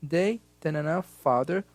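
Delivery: loud, projected teacher voice; class lesson voice. Acted. Teacher runs a recorded grammar exercise, loud and projected.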